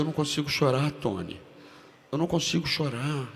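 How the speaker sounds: desperate plea. Retold or imitated. Actor pleading with Tony.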